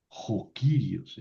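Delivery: Jo Kyrios said slowly, stress on Kyrios; Greek phrase. Shown as a demonstration. Teacher models jo Kyrios for the class, slow and clear. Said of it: "el señor Pérez o el señor Dios".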